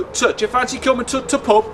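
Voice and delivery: put-on Yorkshire accent with a short "Tut" for "the"; lightly put-on Yorkshire, clipping "the" to a "t". Yorkshire local inviting someone out, Yorkshire accent. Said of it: "people in Yorkshire, apart from Leeds".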